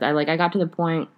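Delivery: talking around a sip of tea; words cut by a sip of tea; while sipping a drink. Real, not acted. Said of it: "I'm drinking my tea".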